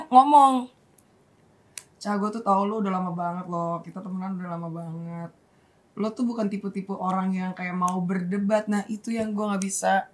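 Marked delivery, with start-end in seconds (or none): 2.0-10.1 subdued, earnest retold plea; hushed confiding. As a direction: confide softly, taking your time. Re-enacts quiet heart-to-heart.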